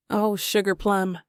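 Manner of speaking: sarcastic southern drawl. Acted. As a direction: lay the southern accent on thick, sarcastically. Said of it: "I drawl, letting my southern accent thicken with sarcasm".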